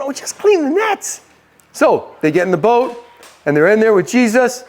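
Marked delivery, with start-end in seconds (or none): 0.0-1.2 high-pitched mock complaint; put-upon protest in a raised voice; mock grumbling. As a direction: grumble it high, like a reluctant brother. Brother shakes his head, protesting.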